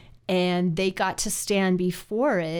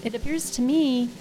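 Dumbledore; 3 semitones higher than usual. Retold or imitated. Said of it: "Dumbledore says".

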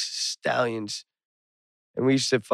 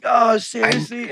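high, slow, louder "seriously?"; hopeful disbelief; 11 semitones higher, 5 dB louder than usual. Retold or imitated. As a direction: perk up, can't believe it. Friend hopeful again.

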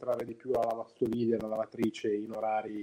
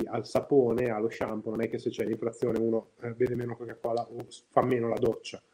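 on speakerphone. Real, not acted. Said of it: "ho provato a cambiare e a mettermi in viva voce".

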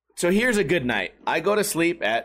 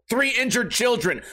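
normal talking voice

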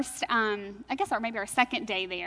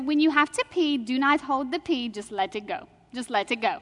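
put-on Indian accent. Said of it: "she, with an Indian accent".

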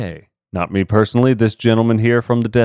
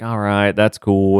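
dumb Southerner. Retold or imitated. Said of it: "dumb Southerner".

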